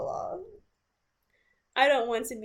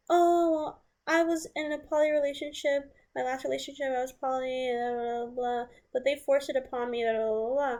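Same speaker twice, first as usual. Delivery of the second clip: higher-pitched, sing-song mockery of his excuse; mocking whiny excuse; 4 semitones higher than usual. Narrator mocks her partner's poly excuse in a high sarcastic voice. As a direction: parody him as he weasels out of it, pitched up.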